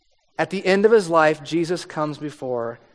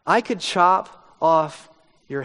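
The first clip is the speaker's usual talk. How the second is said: menacing threat; slower than usual. Retold or imitated. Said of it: "Herod's getting worked up".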